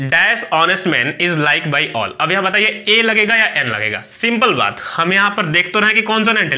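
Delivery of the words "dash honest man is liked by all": slow reading. Shown as a demonstration. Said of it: "अब यहाँ पर है".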